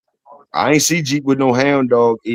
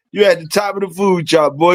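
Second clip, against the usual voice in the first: hyped praise; 6 semitones higher than usual. Real, not acted. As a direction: hype him up even more.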